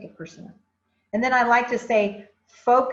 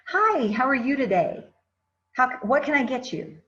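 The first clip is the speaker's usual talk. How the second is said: higher, open and welcoming hello; friendly greeting; 5 semitones higher, 4 dB louder than usual. Shown as a demonstration. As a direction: greet the customer like you're glad they came. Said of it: "I can say something as simple as".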